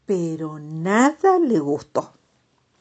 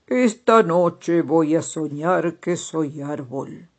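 slow, louder dreamy toad; storybook toad voice; 4 dB louder, slower than usual. Acted. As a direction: tell the dream slowly, savoring it. Toad character speaks in story.

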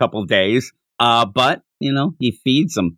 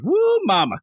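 mock stuffed groan. Goku has stuffed his face, high mock exclamation. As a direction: imitate someone overwhelmed by too much food. Imitates overstuffed Goku's exclamation.

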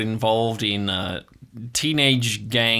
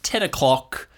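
game master narration. A narrator's reading. GM setting the dream scene for players.

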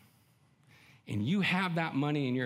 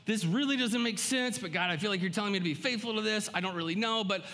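high, searching plea to God with a sigh; a lightly voiced faltering prayer; hesitant prayer; 5 semitones higher than usual. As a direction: let the doubt show, then give in. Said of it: "He wants us to look to him to say".

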